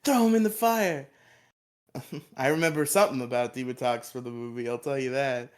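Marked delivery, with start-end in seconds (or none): 0.0-1.1 higher, louder villain line; raised-pitch villain quote. Retold or imitated. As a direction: ham up the villain's order. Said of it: "only quote that I can remember".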